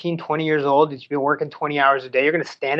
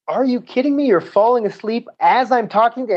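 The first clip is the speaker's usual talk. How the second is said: high, louder mock yell at a dozing sailor; 9 semitones higher, 3 dB louder than usual. Shipmate yelling at a dozing Mike, a mock angry yell. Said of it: "as he's yelling at me".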